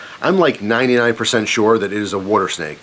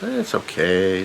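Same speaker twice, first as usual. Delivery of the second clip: relaxed dad; 3 semitones lower, 5 dB quieter, slower than usual. Retold or imitated. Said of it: "he's just totally relaxed".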